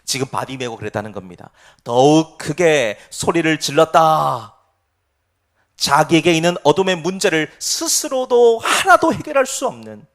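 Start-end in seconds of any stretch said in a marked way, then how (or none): 1.8-4.5 slow, loud, drawn-out verse reading; weighty, loud proclamation of the verse; emphatic quotation. Shown as a demonstration. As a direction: stretch every word and push the volume. Preacher repeats the verse with emphasis.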